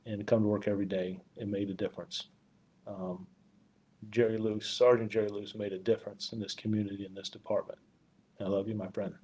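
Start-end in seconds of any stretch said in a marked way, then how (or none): 1.4-9.1 quiet, held-back grief, voice softer; honoring a fallen friend, fighting tears; choked up. Real, not acted. Chief remembering his fallen sergeant, quietly choked up. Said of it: "Sorry for getting choked up".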